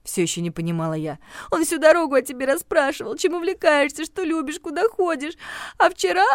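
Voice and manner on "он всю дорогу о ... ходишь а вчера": high, hurt, whining list; each question stings her; tearful jealousy. Acted. Regina recounts Steve's questions about the heroine, tearful.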